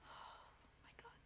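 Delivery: slow, breathy unvoiced whisper. Real, not acted. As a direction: drag it out under your breath. Reacting under breath.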